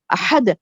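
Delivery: "احد" with ha from inside the throat; deep ha. Shown as a demonstration. Teacher repeats the correct word, deep pharyngeal ha. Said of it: "ہا اندر سے بولیں گے".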